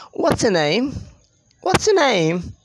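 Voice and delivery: "What's your name" run together as one word; connected speech. Shown as a demonstration. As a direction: link "What's your name" quickly without gaps. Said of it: "they sound like one word".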